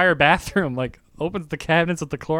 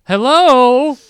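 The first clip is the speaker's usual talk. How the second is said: calling out hello; 7 semitones higher, 7 dB louder than usual. Retold or imitated. Stranger calling louder in apartment.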